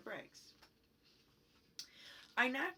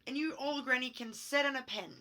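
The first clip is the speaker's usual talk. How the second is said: retold yell; 4 semitones higher, 5 dB louder than usual. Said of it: "The third little pig yelled".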